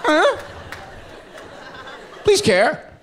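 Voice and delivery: high, whiny mock sob; mock sobbing. Friend mocking his own sobbing, a high hammed-up whimper. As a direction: whimper like a crying kid. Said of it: "it makes you cry more".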